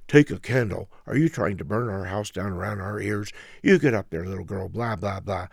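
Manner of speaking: a fed-up dad snapping at bedtime; dad scolding his daughter about the candle, loud and fed up; scolding daddy. Acted. Gruff daddy scolds Tilly.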